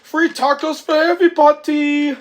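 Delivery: high, loud celebrating cry; jubilant shout. Retold or imitated. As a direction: cheer it out to the whole crowd. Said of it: "And Angelo says".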